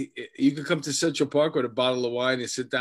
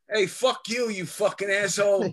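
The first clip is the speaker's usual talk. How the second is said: mock yelling; 6 semitones higher than usual. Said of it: "He just starts yelling at him".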